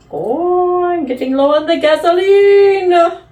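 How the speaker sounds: high, hammed-up British old lady; put-on British announcing voice, climbing high; eccentric old British lady. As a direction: trill it out like a batty British lady. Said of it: "some eccentric old British lady".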